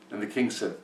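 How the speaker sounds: usual speaking voice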